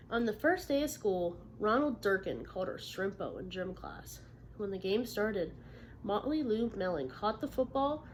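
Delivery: lively read-aloud for a class; storybook narration; story reading to children. Acted. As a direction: tell the story to young listeners. Teacher reads picture book aloud.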